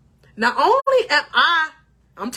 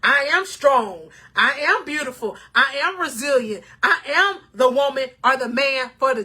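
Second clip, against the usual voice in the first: affirmations. Shown as a demonstration. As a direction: declare each line as a truth. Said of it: "say these "I am" statements".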